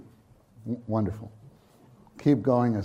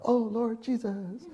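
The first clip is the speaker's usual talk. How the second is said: high, slow, eager call to the Lord; eager morning cry; 10 semitones higher, 6 dB quieter, slower than usual. Shown as a demonstration. Preacher showing how he wakes, high and eager. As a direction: lift the voice gladly, drawing it out. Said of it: "Like this".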